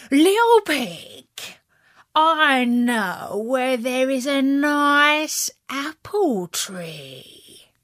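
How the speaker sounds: slow, sly coaxing wolf. Acted. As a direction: lure him in, slowly. Wolf tempts the pig.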